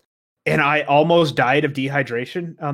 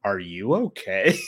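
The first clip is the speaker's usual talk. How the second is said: gentle concern; 7 semitones lower, slower than usual. Retold or imitated. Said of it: "she goes".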